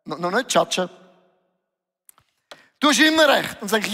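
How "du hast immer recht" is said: louder and higher, hitting immer; Jesus's words repeated for emphasis; emphatic repeat. Retold or imitated. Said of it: "Und Jesus sagt".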